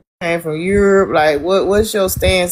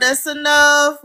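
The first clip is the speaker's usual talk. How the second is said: firm, slow, raised voice to stop the fight; stern call to order; 6 semitones higher, slower than usual. Real, not acted. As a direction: put your foot down and slow it. Host cutting off a quarrel.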